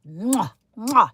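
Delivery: exaggerated double kiss sound; chef's kiss. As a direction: smack two kisses in appreciation. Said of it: "Chef's kiss".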